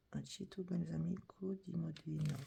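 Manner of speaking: Italian product name read in a mild put-on Italian accent; a hint of Italian accent on the product name. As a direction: lightly roll it out like an Italian. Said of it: "Pardon pour mon accent".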